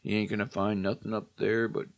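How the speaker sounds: foreboding drawl. Retold or imitated. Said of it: "the sheriff gives that, you know, foreboding".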